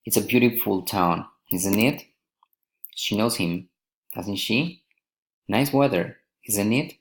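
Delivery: statement falls, then "isn't it" and "doesn't she" rise; tag question intonation. Shown as a demonstration. Teacher models tag questions, rising on "isn't it". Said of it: "falling or rising intonation".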